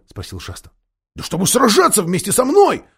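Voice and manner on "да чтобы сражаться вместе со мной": put-on eager, high-pitched boyish outburst; impatient, spirited cry; exclaiming. A narrator's reading. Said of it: "воскликнул Корин".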